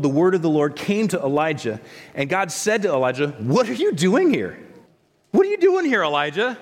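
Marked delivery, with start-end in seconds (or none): 3.4-6.6 booming challenge. Acted. God challenging Elijah in scripture.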